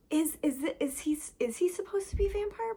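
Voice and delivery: hushed conspiratorial whisper; whispering a suspicion. Real, not acted. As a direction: let the theory slip out in a whisper. Conspiratorial vampire theory.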